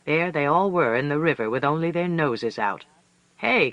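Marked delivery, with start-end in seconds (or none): 3.4-3.7 Coyote calling out. A narrator's reading. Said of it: "Coyote says".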